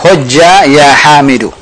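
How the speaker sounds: "Hujja ya Hamidu" falling as a firm order; teacher models "Hujja ya Hamidu" as a command, tune falling to the end; command intonation. Shown as a demonstration. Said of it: "Diperbaiki intonasinya".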